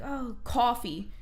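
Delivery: drawn-out COFFEE with an East Coast vowel, "cawfee"; Jersey accent. Shown as a demonstration. Jersey native showing a word others notice, COFFEE in thick accent. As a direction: stretch the first vowel of COFFEE. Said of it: "when I say certain things".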